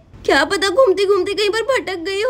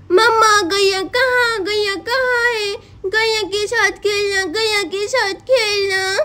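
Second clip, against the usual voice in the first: put-on little child voice; slower than usual. Small child asks for cow.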